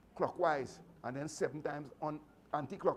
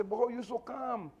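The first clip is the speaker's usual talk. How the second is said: higher, louder quizzical mock voice; amazed onlooker asking how you stay so calm; imitating puzzled people; 6 semitones higher, 3 dB louder than usual. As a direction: ask it like a baffled bystander. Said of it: "When people say".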